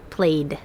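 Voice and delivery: "played" ending in voiced d. Shown as a demonstration. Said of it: "pronounced with D".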